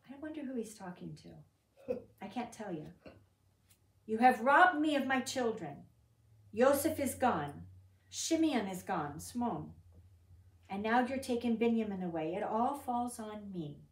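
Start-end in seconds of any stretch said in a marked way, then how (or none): 4.1-13.8 louder, slowed grieving father's cry; anguished lament. Acted. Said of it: "Can you hear his anguish?".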